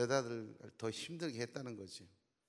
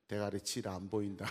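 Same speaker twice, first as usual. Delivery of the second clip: gruff Gyeongsang man; 4 semitones lower than usual. Retold or imitated. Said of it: "경상도 남자".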